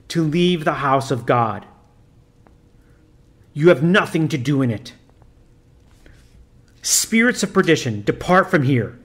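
a lightly voiced priest commanding solemnly; stern priest. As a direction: intone it like an exorcist giving orders.

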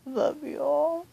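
ordinary talk, nothing marked

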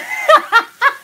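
high, loud burst of laughter; teasing laugh. Real, not acted. Cook teasing viewers about the food, teasing laugh. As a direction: break into a real laugh.

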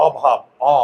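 অভাব with the অ said as an open, short o and the jaw dropping; অভাব, open the mouth wide on the first অ; open o sound. Shown as a demonstration. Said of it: "আমরা এটাকে উচ্চারণ করি কি?".

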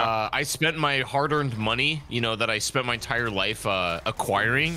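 crypto bro. Pretend. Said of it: "why did you sound like a crypto bro".

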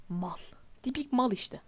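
unvoiced mutter; whispered aside. Real, not acted. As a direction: whisper the insult. Muttered insult.

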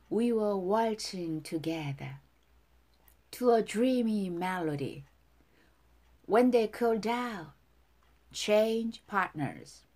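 lyrics recited in lilting, separated phrases; feeling, dance-like. Shown as a demonstration. Teacher modelling song lyrics for students, feeling and dance-like lilt. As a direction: recite it as if dancing, pausing after each phrase. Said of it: "감정 넣어서 춤을 추듯이 발음해 볼게요".

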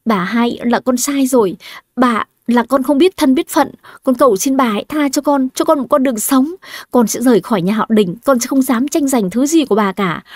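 high, tearful pleading; desperate begging. Acted. Doomed girl begs her rival for mercy, pleading tearfully. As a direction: beg for your life, rising in despair. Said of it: "nhìn Hà Giang khẩn cầu".

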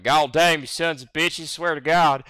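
Southern drawl impression. American guy mocking Southern folks, loud Southern drawl. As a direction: do a hammed-up American Southern accent. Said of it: "you'll have motherfuckers like".

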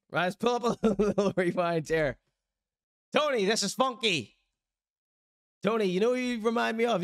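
ordinary talk, nothing marked

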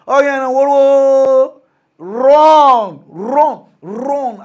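high, loud yell of run; shouted warning. Real, not acted. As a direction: yell at them to flee. Warning listeners to flee scam.

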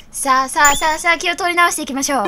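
fast, upbeat pep talk; rallying call. Real, not acted. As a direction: push the mood back up. Rallying herself to continue. (気を取り直して元気に)

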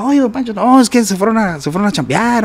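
high-pitched retold question and answer; lively quoted back-and-forth, pitched high; acted-out exchange. Acts out asking after don Pancho.

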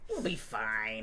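said through a laugh. Real, not acted. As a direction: laugh as you repeat it. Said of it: "repeated with laugh".

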